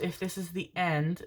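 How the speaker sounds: soft, ominous phrasing; quietly doom-laden; grim. Real, not acted. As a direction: say it softly like a grim farewell. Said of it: "why did I say it like that? That was grim as fuck".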